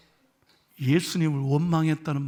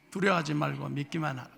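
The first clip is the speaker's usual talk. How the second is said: soft, lifeless mumble; limp reading; 4 semitones lower, 8 dB quieter than usual. Shown as a demonstration. Pastor imitating the congregation's limp, listless reading. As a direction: read it with no energy at all. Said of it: "뭔 성경을 그렇게 매가리 없게 읽어요?".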